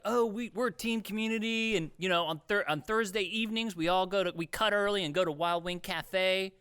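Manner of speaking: mock team spirit. Managers pitching team community to staff, mock peppy. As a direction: parody a peppy manager selling togetherness.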